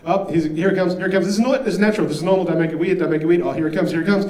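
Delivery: mild panicky inner monologue; panicked inner voice. Retold or imitated. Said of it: "internal dialogue".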